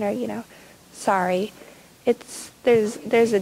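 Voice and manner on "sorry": curt sorry. Shown as a demonstration. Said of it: "same words, different tone of voice".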